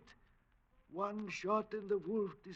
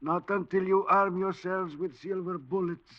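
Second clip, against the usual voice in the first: ominous warning; 5 dB louder than usual. Acted. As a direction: warn them like a prophet of doom. Old man's dire warning.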